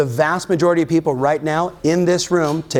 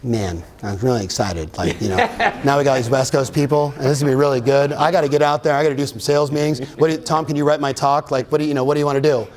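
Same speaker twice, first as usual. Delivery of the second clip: imitating Josh; 3 semitones lower, faster than usual. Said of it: "Here's Josh".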